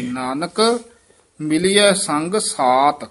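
ਨਾਨਕ held, pause, then slow; pause after ਨਾਨਕ. Shown as a demonstration. Teacher showing the pause after ਨਾਨਕ. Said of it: "ਇੱਥੇ ਯਮਕ ਲੱਗ ਜੇਗੀ".

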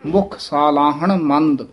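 ਸਾਲਾਹਣ with both long aa sounds, slow; careful pronunciation. Shown as a demonstration. Teacher models ਸਾਲਾਹਣ with both kannas. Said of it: "ਦੋਵੇਂ ਕੰਨੇ ਲਾ ਕੇ ਬੋਲਣਾ ਹੈ".

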